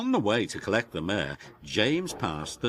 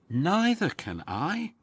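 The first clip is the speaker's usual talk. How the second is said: wheezing Emily; 8 semitones higher than usual. Acted. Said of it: "wheezed Emily".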